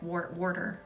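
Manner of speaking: Jersey-style water; New Jersey accent. Shown as a demonstration. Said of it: "even emulate it for you".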